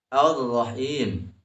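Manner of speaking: Ar-Rahim slowly, R pressed; held R in Ar-Rahim. Shown as a demonstration. Teacher pointing out tasdid, Ar-Rahim with held R. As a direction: lean on the R of Ar-Rahim. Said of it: "Harus ada penekanan".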